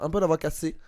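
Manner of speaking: voix légèrement enrouée; voix cassée. Real, not acted. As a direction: parler avec un filet de voix rauque. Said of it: "Non, ça s'entend". (voix cassée)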